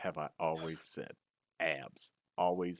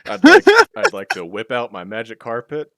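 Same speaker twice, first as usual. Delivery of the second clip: loud excited; 6 semitones higher, 23 dB louder than usual. Acted. Aladdin joke, loud burst.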